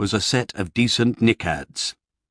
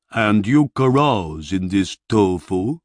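slow, heavy barbarian voice; 3 dB louder, slower than usual. A narrator's reading. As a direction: spell out each word like a big simple warrior. Barbarian hero voiced by narrator.

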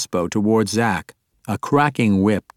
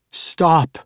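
commanding shout; 7 semitones higher than usual. A narrator's reading. Psionic command from the demon.

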